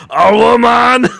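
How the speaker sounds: high, loud, slow laughing disbelief; incredulous. Retold or imitated. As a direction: stretch it out in mock shock. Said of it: "I go".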